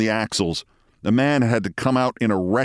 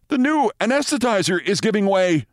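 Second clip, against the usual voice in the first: shouting intern; 12 semitones higher than usual. A narrator's reading. Intern warns the surgeons of a failing machine, high shouting. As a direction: cry it out high, as an alarmed intern. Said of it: "shouted an intern".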